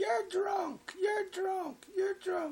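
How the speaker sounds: very high, tearful, sobbed words. Retelling a fight where the father screamed and the mother starts crying: imitating someone crying. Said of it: "And she starts crying".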